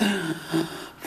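a high, wondering gasp; delighted gasp. Retold or imitated. Child marvels at Peter Rabbit carving with a high gasp. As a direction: gasp like a child who found treasure.

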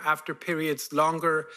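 ordinary talk

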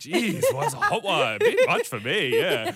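high, laughing mock complaint; laughing fake complaint. Pretending to the driver the coffee is too hot, laughing. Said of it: "I go".

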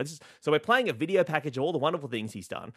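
ordinary talk

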